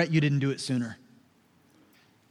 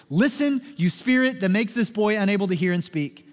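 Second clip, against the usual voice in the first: firm, measured rebuke; raised command that slows to deliberate words; commanding authority; 3 semitones higher than usual. Retold or imitated. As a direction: order it out with authority. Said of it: "speaks with such authority".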